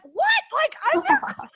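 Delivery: high, loud incredulous squeal; shocked disbelief. Retold or imitated. Retold shock at being called daughter.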